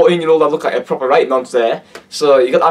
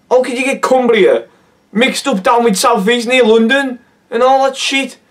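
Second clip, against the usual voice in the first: how could you, raised and incredulous; higher, outraged disbelief; 8 semitones higher than usual. Real, not acted. Vlogger mocking a rapper's geography, outraged. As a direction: pitch up in exasperated disbelief.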